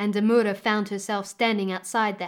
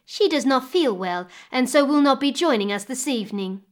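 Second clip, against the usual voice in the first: higher, loud false excuse; lying; 4 semitones higher, 6 dB louder than usual. Acted. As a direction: sell the lie sweetly. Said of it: "lied the stepmother".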